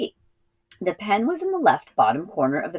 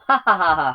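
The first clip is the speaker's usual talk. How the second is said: bleating laugh; 3 semitones higher, 5 dB louder, faster than usual. A narrator's reading. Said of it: "bleated the big lamb".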